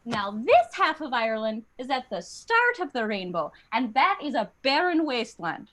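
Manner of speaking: lilting Irish sales pitch; Irish accent. Acted. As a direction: spin a tall tale in an Irish accent. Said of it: "they were like".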